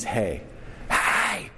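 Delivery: high mock yell of a distant stranger; retold scream. Stranger yelling across the parking lot, high mock yell. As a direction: call out high, like someone far across a lot. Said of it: "screaming at the top of his lungs".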